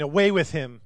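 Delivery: crowd yell. Acted. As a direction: yell it as the mob demanding him gone. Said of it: "they yelled".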